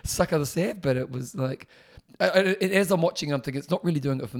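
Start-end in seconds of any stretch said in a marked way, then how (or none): 0.0-0.8 laughing through the idiom. Real, not acted. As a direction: chuckle while saying it.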